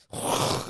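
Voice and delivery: whooshing mouth-made blast; a rough burst of mock demon-blasting noise; imitated blast noise. Friend imagines blasting demons at their foes, imitated blast.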